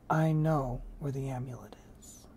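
hushed, secretive whisper; soft. A narrator's reading. Toshiro telling Score about the amulet, whispered. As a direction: let him in on a secret under your breath. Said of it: "said softly".

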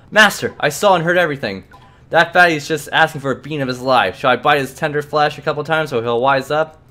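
a hint of an eager, menacing servant; bloodthirsty companion. Edna offering to bite the clerk, lightly voiced eagerness. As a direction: offer violence like a loyal pet.

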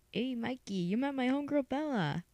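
high, swooping buddy voice that drops to a whisper; chummy hammed-up pitch, then whispered aside; Eric. Auditioner as Eric greeting Mikey, high and chummy, ending whispered. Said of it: "here's Eric".

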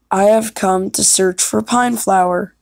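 measured, declarative character line; audition line. Acted. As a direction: announce your quest, lightly acted. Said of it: "voice audition and lines".

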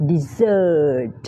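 dessert with a z sound, stress on the second syllable. Shown as a demonstration. Teacher correcting how students say dessert. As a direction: say dessert as di-ZERT. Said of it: "ออกเสียงเป็น dessert".

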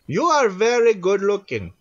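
character voice. Acted. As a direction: exaggerate the compliment up high. Takes of an accented character line.

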